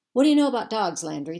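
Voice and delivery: loud, high opening that drops; challenging question. A narrator's reading. Pack mate to Landry about dogs, challenging. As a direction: throw the question out loudly to a companion.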